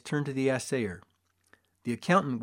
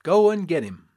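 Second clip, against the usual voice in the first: hearty showman; 4 semitones higher, 7 dB louder than usual. A narrator's reading. Showman cheers crowd on.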